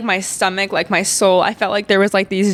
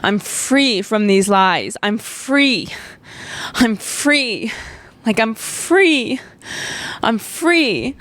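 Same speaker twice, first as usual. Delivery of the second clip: declaring freedom; 2 semitones higher, much slower than usual. Retold or imitated. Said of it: "I'm like".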